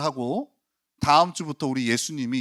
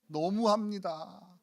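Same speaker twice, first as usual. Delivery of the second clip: slow, softer 너무합니다 drawn out in reproach; hurt reproach; 4 semitones higher, 8 dB quieter, much slower than usual. Shown as a demonstration. Pastor showing the title's tone, slow hurt reproach. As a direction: say 너무합니다 slowly like a wounded sigh. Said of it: "뉘앙스가 이거예요".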